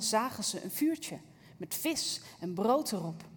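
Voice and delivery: measured Bible reading to the congregation; scripture reading. Acted. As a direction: read the passage with calm reverence. Reads the Bible passage aloud. (voorlezen uit de Bijbel)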